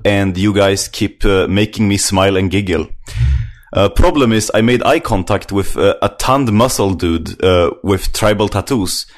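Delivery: put-on Swedish accent with halting, drawn-out phrases. Reading a listener's comment on the podcast, put-on Swedish accent. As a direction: read it in your strongest Swedish accent. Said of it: "read this, uh, last comment with a Swedish accent".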